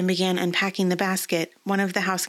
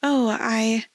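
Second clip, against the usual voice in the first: surprised; 4 semitones higher than usual. A narrator's reading. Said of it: "confused surprise".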